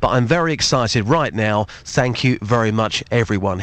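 slow, deadpan monotone impression; boring monotone. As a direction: drone it out slowly, trying and failing to sound excited. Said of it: "my voice always sounds boring".

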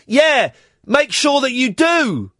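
slow, superior put-down; snotty tone. Retold or imitated. Woman on the swing scolding the dog owner, snide and slow. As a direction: talk down to him, slowly, as if scolding. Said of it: "The tone I am putting in my voice is the tone that she had".

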